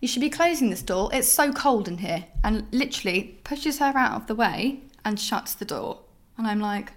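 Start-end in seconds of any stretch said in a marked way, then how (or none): 0.0-2.2 indignant complaint. Retold or imitated. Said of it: "and says".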